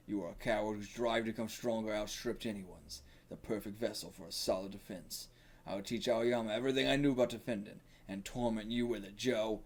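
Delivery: lightly gravelly coach voice. Acted. Coach explaining the plan to Joe, lightly gravelly. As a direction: confess with a touch of gravel. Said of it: "it's just gonna be gravelly".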